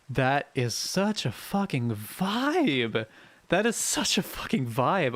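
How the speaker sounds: slow, drawn-out gushing; emphatic enthusiasm. Real, not acted. Streamer relating to a chatter's message, slow emphatic enthusiasm. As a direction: stretch it out with real, heartfelt relish.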